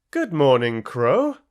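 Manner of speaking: a fox oozing false charm; sweet-talking fox. Acted. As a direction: sweet-talk the crow. Fox greeting crow sweetly.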